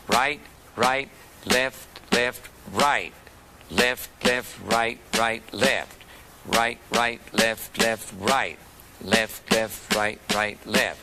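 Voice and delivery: steady counted calls of right and left in the drum rhythm; calling the sticking. Shown as a demonstration. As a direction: call each hand in time with the strokes. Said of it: "Here we go, starting with the right hand".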